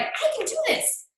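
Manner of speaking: half-shouted, buzzing pep talk to herself; hyped self-talk. Retold or imitated. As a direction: fire yourself up like you can't lose. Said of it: "it gets me hyped".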